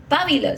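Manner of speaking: pabilo as PA-bi-lo, PA punched; stress on first syllable. Shown as a demonstration. Speaker shows the form not used, PA-bi-lo. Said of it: "I didn't say".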